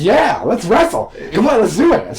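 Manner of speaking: high-pitched, eager mock challenge; imitated enthusiasm. Imitating his friend at the party, enthusiastic. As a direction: play up a friend raring to wrestle. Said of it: "you were more enthusiastic".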